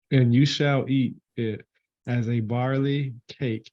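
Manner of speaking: slow, measured reading of Bible verse; scripture reading. Acted. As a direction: read the verse out slowly and deliberately. Reads the Bible verse aloud.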